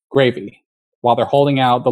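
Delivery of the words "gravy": "Gravy" stated with a falling tone; falling intonation. Retold or imitated. Cafeteria server offering gravy to British customers, respectful falling intonation. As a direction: offer "Gravy" as a statement rather than a question. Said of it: "falling intonation is what you use".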